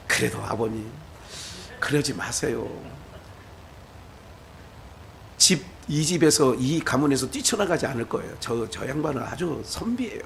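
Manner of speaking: soft, low, polite pleading; a quiet, deferential plea to a father-in-law; son-in-law pleading softly. Retold or imitated.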